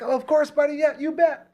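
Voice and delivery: high, carrying friendly reply; imitated hearty call-back. Star answering the host's goodbye, high hearty call. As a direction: holler agreement back across the crowd.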